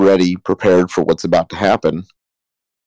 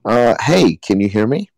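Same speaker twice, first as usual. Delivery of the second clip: yelling down; 3 semitones higher than usual. Acted. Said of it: "what do you yell?".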